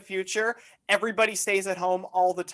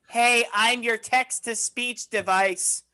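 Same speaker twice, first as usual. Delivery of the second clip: a hint of a slow, droning text-to-speech device; lightly voiced automated speech, drawn out; annoying boomer voice; 2 semitones higher, slower than usual. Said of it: "the most annoying boomer voice".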